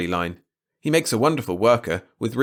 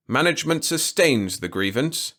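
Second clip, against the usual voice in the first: incredulous drone; 6 semitones higher than usual. A narrator's reading. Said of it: "Tichnat droned incredulously".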